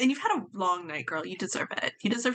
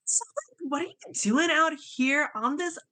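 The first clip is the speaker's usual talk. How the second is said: put-on giddy party girl; 4 semitones higher than usual. Party-girl talk to robot.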